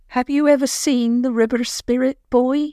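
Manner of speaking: put-on old granny cutting in abruptly. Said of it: "she said abruptly".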